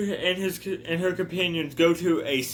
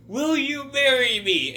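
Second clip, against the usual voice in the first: put-on old man proposing; 9 semitones higher than usual. Voicing old Benny proposing.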